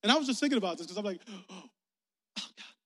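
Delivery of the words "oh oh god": soft, gasped "oh, God"; a quiet, taken-aback aside; hushed reaction. Retold or imitated. Preacher acting out his own startled thought, hushed.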